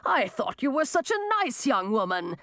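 high, wounded protest; high-pitched old man complaining; yelled reproach. A narrator's reading. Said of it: "he yelled at Millie".

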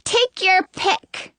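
put-on high, slow little-girl voice. A narrator's reading. Disguised queen offers Snow the plate, little-girl voice. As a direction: hand it over in a drawn-out child's singsong. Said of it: "the little girl says".

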